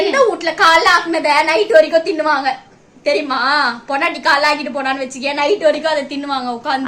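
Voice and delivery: loud, indignant domestic tirade; angry scolding. Real, not acted. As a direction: hurl the complaint at a husband. Wife rowing over cooking. (கோபமாக சத்தமாகத் திட்டுதல்)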